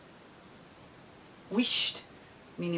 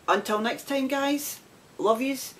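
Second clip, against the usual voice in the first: cheery sign-off; 4 semitones higher, slower than usual. Real, not acted.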